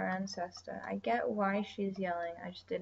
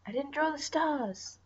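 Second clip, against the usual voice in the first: dismayed realisation; 6 semitones higher, 4 dB louder than usual. Real, not acted. Realising mid-drawing she forgot the stars, dismayed. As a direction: blurt it out as it dawns on you.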